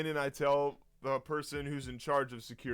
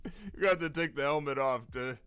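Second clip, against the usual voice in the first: louder, laughing, humouring a strange visitor; coaxing guard; 2 semitones higher, 5 dB louder than usual. Retold or imitated. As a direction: talk him gently out of the room, barely holding back laughter. Guards coax helmeted man away.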